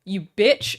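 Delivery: loud, high snap of an insult; mock angry yell. Streamer insulting chatter on request, mock furious yell. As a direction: spit it out like a hammed-up bully. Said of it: "I'm really sorry I called you a bitch".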